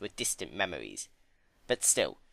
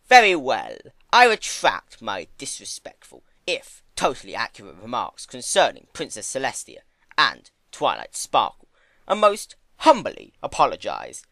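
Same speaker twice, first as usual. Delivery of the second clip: mock apology; 9 dB louder than usual.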